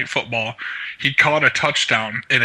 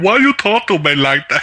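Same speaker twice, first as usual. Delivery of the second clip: mock wheelchair kid voice; 5 semitones higher, 4 dB louder than usual. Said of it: "call up as a wheelchair kid".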